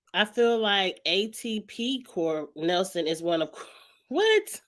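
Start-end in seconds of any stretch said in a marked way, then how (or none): 4.1-4.6 sharp high rising what, caught off guard; a baffled, shooting-up what?; surprised what. Real, not acted. Confused by unknown acronym ATP.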